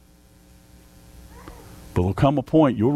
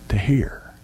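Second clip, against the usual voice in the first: whispered repeat. Real, not acted. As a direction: breathe the words to hear, barely voiced. Repeating call to hear.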